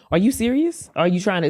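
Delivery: high-pitched, disbelieving question; incredulous shock. Acted. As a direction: question it as if stunned. Almost be in shock.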